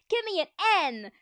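loud, high cheerleading chant; high-pitched pep-rally yell; cheerleader shout. A narrator's reading. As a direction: belt it out to rally the crowd. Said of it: "shouted the cheerleaders".

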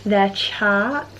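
speaking past card at lips; card held at mouth. Real, not acted. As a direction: lips parted around card. Seen 0: Holds shade card against lips and teeth while talking, then lowers it.

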